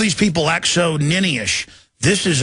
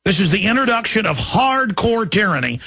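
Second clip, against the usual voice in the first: raised ranting voice, higher; shouting; 5 semitones higher than usual. Real, not acted. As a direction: shout it out in outrage. Ranting against tyranny.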